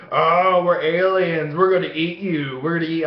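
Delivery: hint of a spooky alien threat; lightly voiced alien. Parents teasing kid under blanket, playful alien menace.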